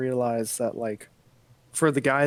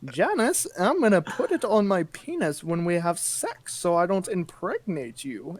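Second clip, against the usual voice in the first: higher-pitched, lightly put-on old-timey man; lightly voiced old-timey husband; 4 semitones higher than usual. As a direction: play an old-fashioned husband, pitched up a little. Acts old-timey man to wife.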